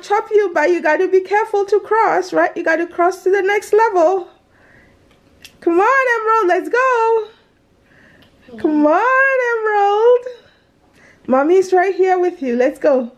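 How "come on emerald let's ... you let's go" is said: gentle coaxing, mommy's here. Real, not acted. Mother coaxing scared daughter.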